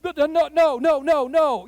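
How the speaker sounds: loud, high flustered no's; loud high panicked denial to the officer. Retold or imitated. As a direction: deny it in a rush.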